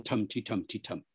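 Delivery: "tum-ti-tum-ti-tum" alternating strong and weak; stress-timed rhythm. Shown as a demonstration. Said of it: "rather than".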